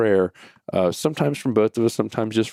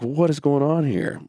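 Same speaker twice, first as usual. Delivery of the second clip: higher, baffled question; retold confusion; 7 semitones higher than usual. Dad unable to figure out son's tears, baffled. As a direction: act out mild bewilderment. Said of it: "I'm now confused".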